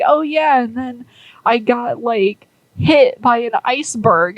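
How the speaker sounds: a lightly voiced Zug, breezy and unbothered; casual Zug voice. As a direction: toss it off like it's nothing. Zug casually recalls iceberg hit.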